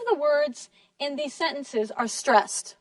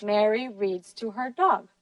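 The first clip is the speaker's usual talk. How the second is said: main stress falls on final "dog"; 5 semitones lower, 4 dB quieter than usual. Shown as a demonstration. Teacher repeats student's correction, stressing "dog". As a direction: lean on "dog" at the end. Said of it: "which word has the most stress".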